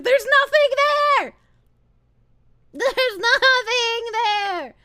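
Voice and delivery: high drawn-out yell, very slow; real exasperated cry; exasperated shout. Real, not acted. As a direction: wail it out in disbelief. Exasperated outburst at chat.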